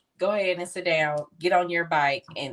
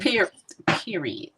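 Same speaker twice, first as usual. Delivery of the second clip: hushed emphatic period; whispered period; slower than usual. Real, not acted. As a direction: whisper it with finality.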